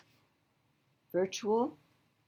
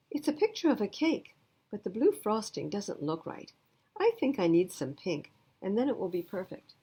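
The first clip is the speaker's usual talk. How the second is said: friendly classmate voice; 4 semitones higher, 3 dB louder than usual. Acted. Classmate explains her painting.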